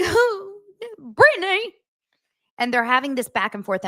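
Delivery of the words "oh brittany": higher, louder mock-sappy Jax. Jax sweet-talking his ex, hammed-up voice. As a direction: drag out her name like a sweet-talker. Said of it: "he's like".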